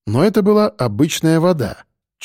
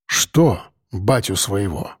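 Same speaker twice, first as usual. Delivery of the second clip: gentle but insistent; 6 semitones lower, 3 dB quieter, slower than usual. A narrator's reading. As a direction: lower and slow, soft yet pressing. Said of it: "мягко, но настойчиво спросил".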